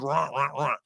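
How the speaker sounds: brief "rah rah" take on Australian speech; mock Australian accent. Man joking that everything Australians say is rah, mock Australian accent. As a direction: toss off a parody of Australian vowels. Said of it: "Everything is".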